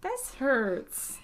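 pained whisper. Real, not acted. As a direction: whisper it, wincing. Whispers after the loud clap.

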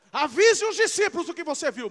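loud, high preaching proclamation; preaching shout. Real, not acted. Preacher shouting to the congregation, loud and high. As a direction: belt out the message to the church.

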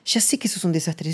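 breathy whisper, voice dropped away; soft unvoiced aside. Real, not acted. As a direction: let it slip out as a confiding whisper. Whispered echo of the earlier line.

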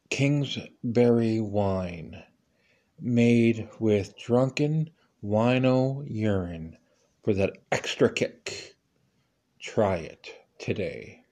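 deadpan slow commercial read; slow ad tagline. Acted. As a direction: drag out each word like a cheesy ad. Mock wine commercial tagline.

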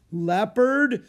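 high, loud frightened cry; sudden terror at the word; alarmed gasp of fear; terrified. A narrator's reading. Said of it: "Jack thought with terror".

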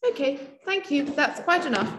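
lightly voiced Richard Madeley impression; a hint of a curt TV host. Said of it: "I'm gonna do a Richard Madeley".

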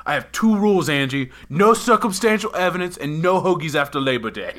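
hammed-up Boston tough-guy rant; Boston accent. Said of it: "I'm still doing the Boston accent".

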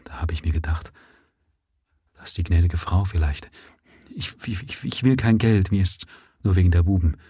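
soft, halting, words breaking off; quiet. Acted. Grieving father pleading softly for his boys, quiet and halting. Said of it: "sprach leise weiter".

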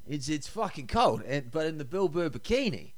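shaky attempt at a Boston accent; unconvincing Boston accent with New Zealand underneath. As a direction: try a Boston accent, not quite landing it. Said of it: "that was a good Boston accent".

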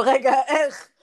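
laughing, asking how that could be; a disbelieving laugh around the question; laughing disbelief. Real, not acted. Friend laughs at Daisy becoming Shoshana, amused disbelief.

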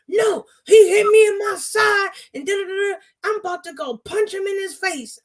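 high, whiny imitation of an angry kid; upset little boy.

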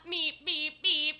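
robot voice. Pretend.

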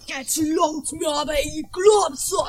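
slow, angry shouted outburst. Acted. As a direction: drag it out and shout it like you've had enough.

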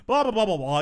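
run-on mock-arguing babble; lightly mimicked rant; imitated rambling. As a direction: mimic a coach who won't stop. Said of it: "They just keep rambling and rambling".

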